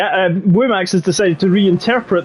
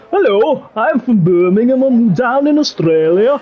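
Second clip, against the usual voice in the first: mock Brummie accent, a bit higher; a quick jokey Birmingham accent; 5 semitones higher than usual. Commentator jokes about the AI voice by putting on a Brummie accent. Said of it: "you could go into a Brummy accent".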